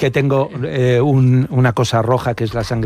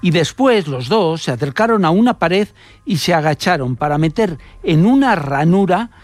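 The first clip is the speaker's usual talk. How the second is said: measured narration with emphatic pauses before key words; scripted radio storytelling; 3 semitones higher than usual. Acted. Radio reporter recounting an Italian spy case to listeners, storytelling delivery.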